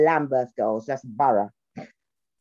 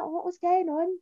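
put-on Brummie accent; 14 semitones higher, 6 dB quieter, slower than usual. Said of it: "like, Brummie accent".

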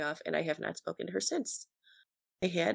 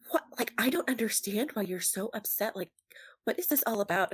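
higher, whiny imitation of a baffled friend; a mild mock of the friend's confused whine; 4 semitones higher than usual. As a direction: play her as clueless and put out. Mocking friend's baffled protest.

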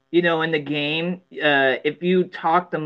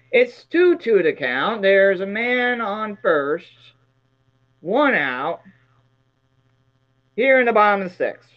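Vin Scully; 3 semitones higher than usual. Pretend. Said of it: "that would be the Vin Scully achievement".

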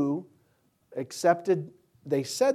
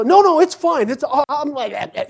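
high, loud, dismissive reassurance; breezy coworker; 11 semitones higher, 12 dB louder than usual. Retold or imitated. Mark insists the dog is fine, high and loud. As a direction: laugh off the danger like an overconfident guest. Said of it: "And so".

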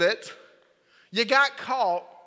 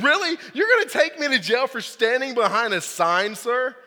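incredulous retort; 3 semitones higher, 4 dB louder than usual. Retold or imitated. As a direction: throw back a cheeky, disbelieving question. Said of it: "I said".

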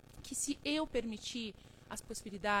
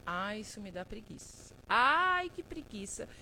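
preguiça imitada; 4 dB louder than usual. Retold or imitated. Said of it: "Eu tava assim".

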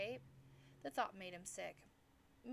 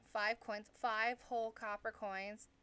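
slow, loud, mocking repeat; scornful disbelief; 2 semitones higher, 8 dB louder, slower than usual. A narrator's reading. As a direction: drag out each word in scorn. Agent mocks the tiny offer.

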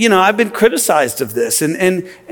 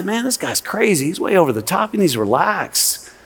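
softer, muttered skeptic aside; skeptical listener; 6 dB quieter than usual. Pretend. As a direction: grumble like a doubter in the pew. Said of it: "some of you are sitting here right now and say".

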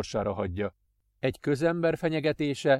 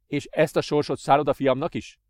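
louder, cold question; 3 semitones higher, 5 dB louder than usual. Acted. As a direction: ask it coldly. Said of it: "kérdezte ridegen".

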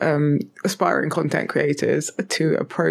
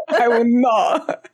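mock indignant refusal. Playful refusal of American pronunciation.

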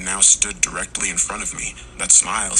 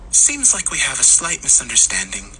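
higher-pitched, uncanny man's voice; pitched up, smugly polite; creepy smiling man; 6 semitones higher, 3 dB louder than usual. A narrator's reading. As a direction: play an eerie, too-friendly stranger. Creepy doll-like man's first line.

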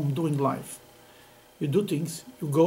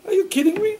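incredulous; 8 semitones higher, 7 dB louder than usual. Retold or imitated. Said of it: "I would look at him and said".

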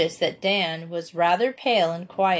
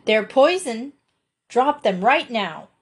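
bossy order; 3 semitones higher than usual. Acted. Felicity ordering Dan to drop the berries, bossy. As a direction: order him to drop them. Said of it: "in her bossiest tone".

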